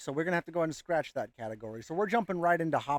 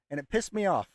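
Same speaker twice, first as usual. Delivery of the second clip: whisper. Real, not acted. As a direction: hiss it under your breath. Whispered aside.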